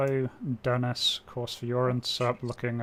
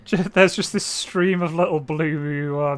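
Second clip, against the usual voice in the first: amused, raised voice while chuckling; laughing; 4 semitones higher, 8 dB louder than usual. Real, not acted. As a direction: laugh through the description. Laughing at missile stream.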